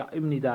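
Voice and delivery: "ام ندا" pronounced im-ni-da; nasalised ending. Shown as a demonstration. Teacher showing how it will sound, "ام ندا" with m. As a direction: let m replace the stop in "ام ندا". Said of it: "اس طرح کی آواز دے گا".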